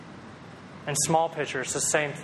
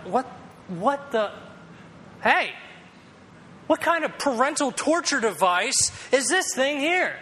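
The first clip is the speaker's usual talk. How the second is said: much higher mock-kid yelp; frustrated little kid; 10 semitones higher than usual. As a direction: squeal like a kid whose fingers are trapped. Kid stuck in finger trap.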